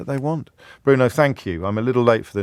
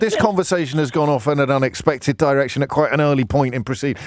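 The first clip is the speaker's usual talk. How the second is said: mock shock; 4 semitones higher than usual. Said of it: "and I thought".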